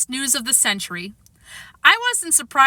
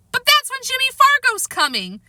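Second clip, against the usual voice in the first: high cracking cry. A narrator's reading. Peter hearing Jimmy's visit clashes, voice breaking high. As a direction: let the voice crack in alarm. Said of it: "I heard my voice crack".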